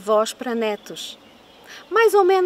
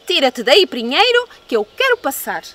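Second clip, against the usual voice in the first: shouting at the pine; 4 dB louder than usual. Acted. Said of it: "gritou-lhe".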